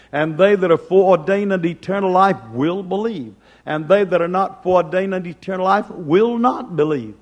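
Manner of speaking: impassioned sermon, rising and falling; preaching. Acted. Preacher exhorting the church, fervent preaching. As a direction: preach it to the congregation with conviction.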